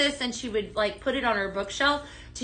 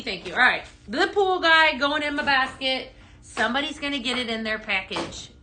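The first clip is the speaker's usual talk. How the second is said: usual speaking voice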